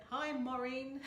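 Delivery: put-on mum's Bajan accent, lightly done; a gentle imitation of a Barbadian mum's greeting. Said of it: "my mum would say with her Bajan accent".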